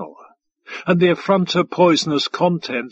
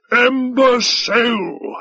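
muttered insult; 8 semitones higher, 3 dB louder, slower than usual. A narrator's reading. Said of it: "muttered Five Tide".

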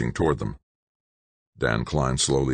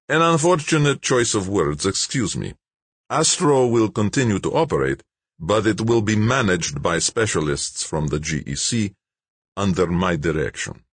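smug official Malik; 6 semitones higher than usual. A narrator's reading. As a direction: announce the shutdown coolly, pleased with yourself. Malik placating.

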